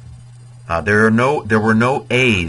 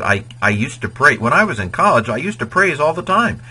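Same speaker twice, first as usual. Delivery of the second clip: rising, higher "all the time"; mock nostalgic speaker; 7 semitones higher than usual. Teacher acts out a sample translation, mock reminiscing voice. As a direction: play someone fondly remembering college. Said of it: "he suggests you could translate it".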